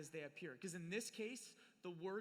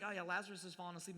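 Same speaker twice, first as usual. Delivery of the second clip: mock frustrated; faster than usual. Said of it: "frustrated Jesus".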